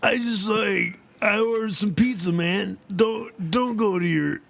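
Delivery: lightly voiced Irish stoner; Irish accent. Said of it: "doing an Irish accent".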